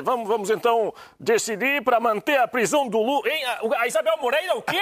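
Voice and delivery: put-on high, playful Brazilian Portuguese accent. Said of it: "estás a ficar com um bom sotaque brasileiro".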